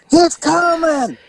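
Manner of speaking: high, slow, drawn-out wail; booming voice. Retold or imitated. Woman in labour calling from upstairs, slow and high. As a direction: stretch each word out from upstairs. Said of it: "booming voice".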